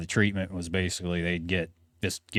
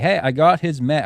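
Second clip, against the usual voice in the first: raised, louder call through a closed door; retold yelling; 8 semitones higher, 8 dB louder than usual. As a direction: shout it up high to be let in. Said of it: "I'm yelling as loud".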